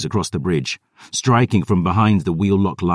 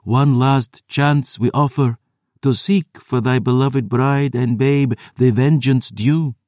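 imperious vampire offer; 6 semitones higher than usual. A narrator's reading. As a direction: dangle vengeance before him. Vampire elders final offer.

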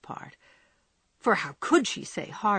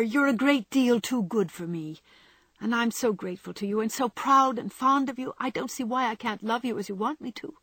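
lightly voiced young woman, pleading gently; a hint of Jo begging him to understand; Joe pleading; 4 semitones higher, 4 dB louder than usual. A narrator's reading.

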